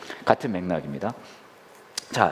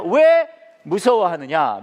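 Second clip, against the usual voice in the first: slow, louder reproach; mild acted rebuke; 2 semitones higher, 5 dB louder, much slower than usual. Jesus to frightened disciples, mildly stern rebuke. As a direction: draw out the opening word, loud.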